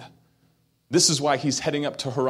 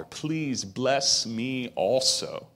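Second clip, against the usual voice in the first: begging; much slower than usual. Acted. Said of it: "he begins to beg his father".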